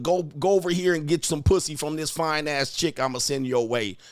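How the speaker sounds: ordinary talk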